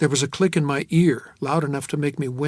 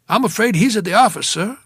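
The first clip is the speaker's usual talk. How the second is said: high, quick, louder maid's voice; 7 semitones higher, 7 dB louder than usual. A narrator's reading. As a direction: play the polite maid on the phone. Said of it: "a maid, probably".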